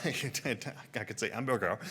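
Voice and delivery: mock French accent, mangled words; Steve Martin. Recalling a Pink Panther scene in mock French accent. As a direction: stumble through it in a comic French accent. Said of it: "speaking French like Steve Martin and Pink Panther".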